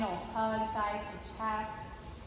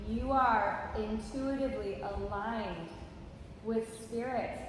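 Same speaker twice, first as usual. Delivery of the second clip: guided meditation. Acted. Leads a body-scan meditation.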